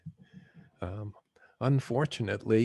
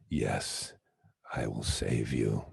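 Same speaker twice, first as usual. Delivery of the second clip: much lower, godlike voice from above; booming heavenly voice; 12 semitones lower, 3 dB quieter, slower than usual. Retold or imitated. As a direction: answer like God from the clouds. Voice from the sky answers.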